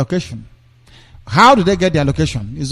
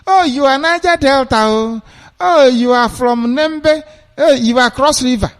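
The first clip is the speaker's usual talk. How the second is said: high, sing-song mock greeting, much higher; mocking outsiders; 9 semitones higher than usual. Mocking outsiders who divide Nigerians, in a high sing-song mock voice. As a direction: sneer at how outsiders sort people by tribe. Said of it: "But they come to Biafra land".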